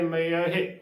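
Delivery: ਮਯਹਿ as "ma-ya-he"; ਮਯਹਿ with a clear y and a final he; shown pronunciation. Shown as a demonstration. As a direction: sound all three syllables of ਮਯਹਿ. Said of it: "ਉਚਾਰਨ ਕਰਨਾ ਹੈ".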